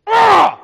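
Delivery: a high, loud shout of Ah; excited yell. Real, not acted. Preacher yells after the quote.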